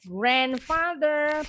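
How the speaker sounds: "Grandfather" said slowly and carefully, each syllable clear; slow model word. Shown as a demonstration. Teacher modeling a new word for pupils, slow and careful. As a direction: spell out "Grandfather" slowly for the class. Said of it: "persamaannya grandfather".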